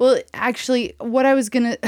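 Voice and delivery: giggling through the words; laughing. Real, not acted. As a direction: talk while laughing. Laughing fit continues.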